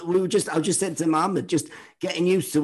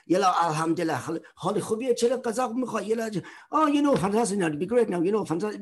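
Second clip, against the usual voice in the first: higher, chatty faux-Arabic gibberish; mock Arabic babble; 8 semitones higher than usual. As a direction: gabble away like the Arab relatives at Christmas, pitched up. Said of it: "they'd all be chatting, going".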